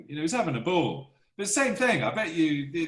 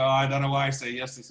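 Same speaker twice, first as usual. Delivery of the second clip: nervous fretting; 5 dB louder, faster than usual. Retold or imitated. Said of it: "getting all nervous and going".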